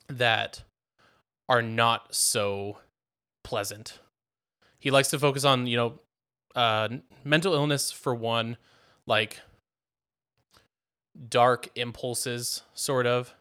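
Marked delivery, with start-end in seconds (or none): 4.8-13.3 out of breath. Real, not acted. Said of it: "Sorry, I'm out of breath".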